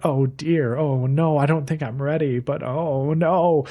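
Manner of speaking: lightly acted dithering dismay; mock flustered. Retelling the girl who misunderstands him, mildly mock flustered. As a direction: imitate a flustered girl, stretching the last oh no.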